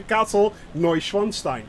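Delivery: "Neuschwanstein" said NOY-shvahn-shtine; actual pronunciation. Shown as a demonstration. Streamer showing viewers the actual pronunciation, "Neuschwanstein" said carefully in German. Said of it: "the actual pronunciation of".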